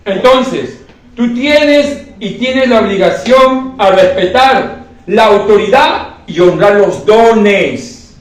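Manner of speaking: drawn-out, insistent sermon delivery; slow emphatic preaching. Acted. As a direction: lean on each phrase like a preacher. Preacher exhorting the congregation. (predicación lenta y enfática)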